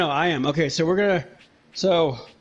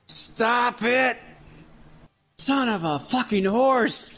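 pained yelling; 4 semitones higher, slower than usual. Real, not acted. Pain won't stop, yelling.

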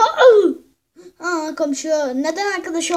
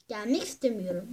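grumpy creature voice; 9 semitones lower, 10 dB quieter than usual. Acted. Voicing reluctant animal in low voice.

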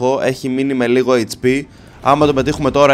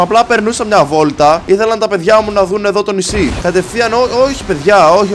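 louder, higher pleading to the enemy ships; mock peace plea; 4 semitones higher, 4 dB louder than usual. Pleading with enemy ships for peace, louder. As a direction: beg the attackers to talk it out.

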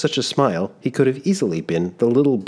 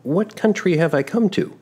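put-on higher, sheepish boyish voice; an embarrassed young man caught out; young traveler, flustered; 11 semitones higher than usual. Giovannino wonders aloud.

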